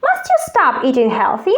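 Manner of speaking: ordinary talk, nothing marked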